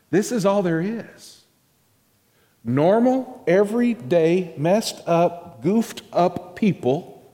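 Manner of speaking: excited preaching. Real, not acted. Preacher exclaims list.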